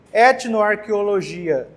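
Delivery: Etnoarqueologia said slowly, syllable by syllable; slow dictation pace. Shown as a demonstration. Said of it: "teacher dictating the word". (Etnoarqueologia dita devagar, como ditado)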